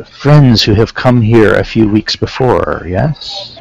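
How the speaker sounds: put-on slow, deliberate, lightly Terran-accented councilman. Councilman to visitors about their missing friends, light Terran accent. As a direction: speak slowly with a slight invented Terran accent. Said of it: "he has a strong Terran accent".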